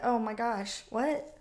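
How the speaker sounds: ordinary talk, nothing marked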